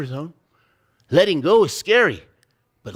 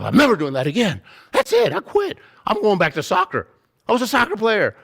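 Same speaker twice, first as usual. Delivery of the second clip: mock panic; 5 semitones higher, 3 dB louder than usual. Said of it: "You wanna quit 'cause the fear is that strong".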